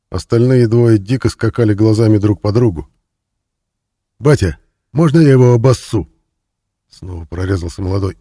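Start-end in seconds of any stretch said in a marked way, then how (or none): 4.2-6.1 put-on louder, higher cocky young thug; eager punk asking the boss; a young inmate asks the boss for permission, cocky and loud. A narrator's reading.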